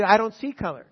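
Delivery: mock defensive white man. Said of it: "don't let him say".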